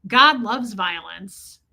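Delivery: slow, creepy imitation of a prison guard; Ted Levine. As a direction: draw it out slowly, a mild mock menace. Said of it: "it's such a creepy scene".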